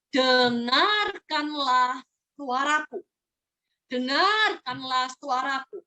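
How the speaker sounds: very slow, earnest plea; pleading God. Acted. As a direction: draw out each word, begging them to listen. (permohonan Tuhan yang sangat pelan dan sungguh-sungguh)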